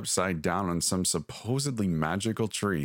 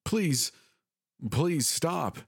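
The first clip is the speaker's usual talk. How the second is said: much higher, desperate cry of please stop; mother runs up crying for them to stop, high and urgent; yelled plea; 9 semitones higher, much slower than usual. A narrator's reading. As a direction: call out to halt the ritual. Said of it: "a familiar voice yelled out".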